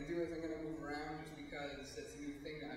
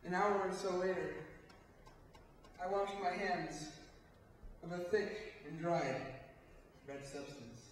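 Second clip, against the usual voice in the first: grim aftermath; 2 semitones higher, slower than usual. Acted. Narrator confesses washing hands afterwards, grim slow monologue ending. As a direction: reveal it slowly, phrase by phrase.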